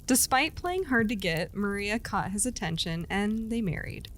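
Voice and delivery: steady storyteller voice reading a legend; storytelling narration. A narrator's reading. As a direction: tell it like a campfire legend.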